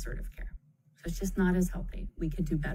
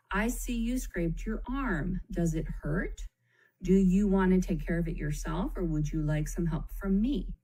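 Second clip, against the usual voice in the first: concerned and loving tone. Shown as a demonstration. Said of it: "says in a concerned and loving tone".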